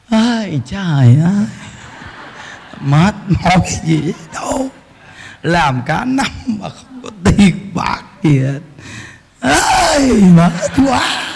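low, slow tired sighing complaint; weary complaining. Retold or imitated. Monk imitating a weary person, sighing and low. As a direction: moan like life wears you out. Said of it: "Khổ ghê chưa?".

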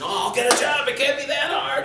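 high-pitched mock spouse voice; acted breezy protest. Spouse discussing a lost job, high mock protest. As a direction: push it up high and a bit loud, play-acting.

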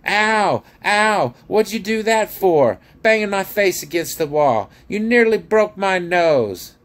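very high, loud pained howl; howling dwarf complaint, shrieked high. A narrator's reading. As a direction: wail in outraged pain. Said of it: "rubbing his nose and howling".

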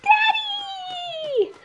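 high happy call across the room; calling out happily. Acted. Child greets dad at daycare, high happy call.

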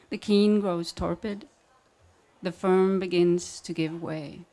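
measured reading with long pauses between lines; poetry reading. Acted. Poet reading her saboteur manual to an audience, measured poetry reading. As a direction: read each line evenly, then let it hang.

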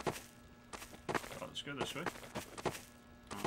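whispering. Real, not acted. Sneaking quietly.

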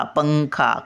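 "पंखा." with the first syllable held and "खा" let fall; पं उचलून. Shown as a demonstration. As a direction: hold the "pang" of "पंखा.". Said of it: "पला उचलून धरतो". ("पंखा." पं धरून म्हणा)

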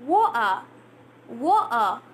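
"Wa-a" in two halves, T replaced by a catch; glottal T. Shown as a demonstration. Teacher repeats glotted water for learners, "Wa-a" without its T. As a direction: say "Wa-a" with the T gone. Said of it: "T is gone".

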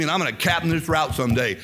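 retold vow with a touch of boldness; bold aggression. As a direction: declare it as a determined promise. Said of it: "I like boldness. I like aggression".

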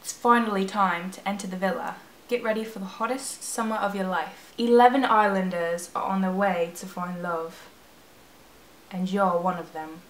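put-on reading the game text in a shaky British accent; attempted British accent. Gamer reading Love Island text in a British accent. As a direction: try a British accent, not quite landing it. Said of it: "I don't do a good British accent, so I'm gonna try".

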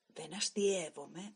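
jealous stoker insisting he is not joking; angry. Acted. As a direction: spell out each word in rising anger. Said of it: "μου είπε καταδημωμένος".

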